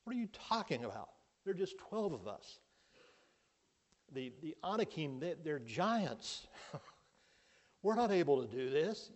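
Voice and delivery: lightly voiced cowering spy protesting; frightened spies. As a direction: scoff at the plan in fear. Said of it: "The other spies are saying".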